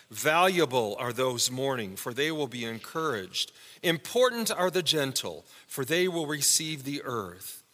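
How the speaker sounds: measured, solemn reading of "Worthy are the poor in spirit"; scripture reading. Acted. Pastor reads the new Beatitudes to the congregation, solemn.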